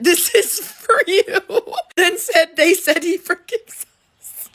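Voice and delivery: high-pitched, slowed by laughter; real laughing. Real, not acted. Teller reading a five-year-old's apology to Jesus, laughing. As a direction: crack up while reading out the quote. Teller cracking up while quoting.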